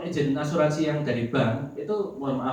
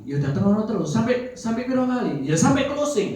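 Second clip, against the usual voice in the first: retold exchange; 7 semitones higher, 5 dB louder than usual. Retold quick exchange with sister.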